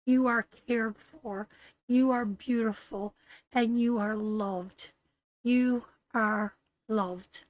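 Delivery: close to tears. Real, not acted. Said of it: "Oh, you're gonna make me cry".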